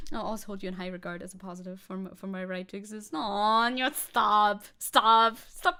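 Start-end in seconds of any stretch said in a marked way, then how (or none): 3.1-5.8 loud embarrassed protest; bashful, waving off the praise; flustered. Real, not acted. Flustered by chat compliments.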